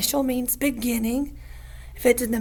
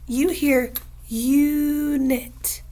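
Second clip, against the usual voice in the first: slow; much slower than usual. Shown as a demonstration. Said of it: "You got an answer?".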